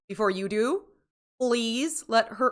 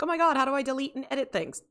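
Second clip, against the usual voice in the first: mock panic; 6 semitones higher, faster than usual. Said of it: "Wolfie panicking, being like".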